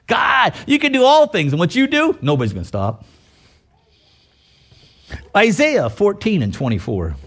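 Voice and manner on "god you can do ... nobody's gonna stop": fervent shout. Real, not acted. Preacher proclaims God's power.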